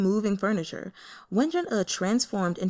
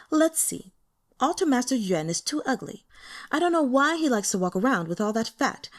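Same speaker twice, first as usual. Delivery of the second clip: higher, louder playful lady sorting her prisoners; smiling lady; 5 semitones higher, 3 dB louder than usual. Acted. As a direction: toy with their fates as if choosing sweets. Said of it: "then smiled and said".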